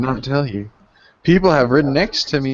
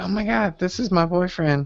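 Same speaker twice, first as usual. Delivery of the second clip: put-on clingy, high-pitched little kid voice; 6 semitones higher, 4 dB quieter than usual. Describing young children clinging to the speaker's arm: imitating a little kid. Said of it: "is all like that little kid".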